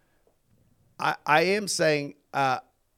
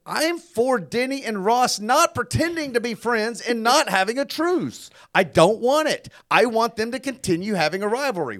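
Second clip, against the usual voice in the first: emphatic stand; 6 semitones higher than usual. Real, not acted.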